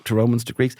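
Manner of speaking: slow, far-off musing voice; a child lost in a daydream; dreamy child. Retold or imitated. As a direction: muse like an enchanted kid. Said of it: "you were like".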